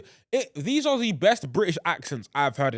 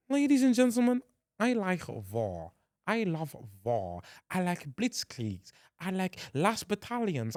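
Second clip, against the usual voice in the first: the Major; 4 dB quieter than usual. Acted. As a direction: savour each phrase in a theatrical German accent. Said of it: "the Major's accent, even though the Major in that series, his speech".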